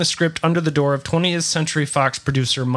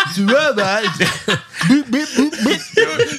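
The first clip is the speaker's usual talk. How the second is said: higher mumbled Stallone robot; marbles in mouth; 8 semitones higher than usual. Retold or imitated. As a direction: slur it, then beep like a robot. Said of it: "take the marbles out of your mouth".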